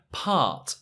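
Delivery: part with a long open ah. Shown as a demonstration. Teacher models part with the long ah. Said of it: "And it is R".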